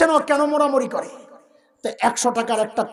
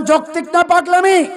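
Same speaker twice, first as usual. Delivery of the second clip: raised, high-pitched rallying question; preacher demanding a louder answer; 5 semitones higher, 4 dB louder than usual. Shown as a demonstration. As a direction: throw it out loud to rouse the crowd. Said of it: "আরো জোরে বলেন".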